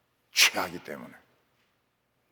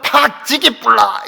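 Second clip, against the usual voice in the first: slow, louder mock Gyeongsang growl; Gyeongsang dialect threat; 6 semitones higher, 7 dB louder, slower than usual. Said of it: "경상도 사람들은".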